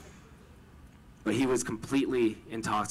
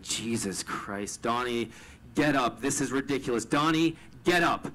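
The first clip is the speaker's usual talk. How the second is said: from exasperated sigh to louder call; impatient to alarmed; 4 dB louder than usual. Retold or imitated. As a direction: scold him to get up, growing alarmed. Finding friend on the floor.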